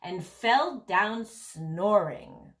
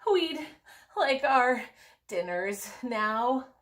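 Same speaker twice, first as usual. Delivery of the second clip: out of breath; 4 semitones higher than usual. Acted. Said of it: "they puffed".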